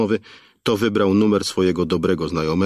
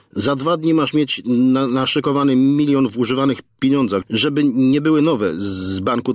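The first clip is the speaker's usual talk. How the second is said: crude threatening thug, pitched higher, halting on words; thuggish kidnapper; 5 semitones higher than usual. Acted. Kidnapper dictating the ransom to the father, crude and threatening. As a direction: lay out the ransom terms like a street thug.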